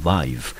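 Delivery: "vive" with the long letter-name I; syllable pronunciation demo. Shown as a demonstration. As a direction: model the syllable "vive" for learners. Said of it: "整个音节我们就念成vive". (示范念 "vive"，I 念字母音)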